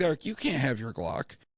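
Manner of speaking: plain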